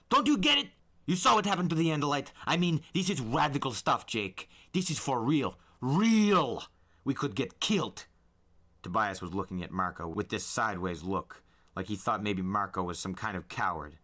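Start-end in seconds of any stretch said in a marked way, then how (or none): 0.1-8.1 high, loud, fast frantic outburst; going ballistic, pleading to be heard; panicked rant. A narrator's reading. Marco ranting at Jake about the danger, frantic.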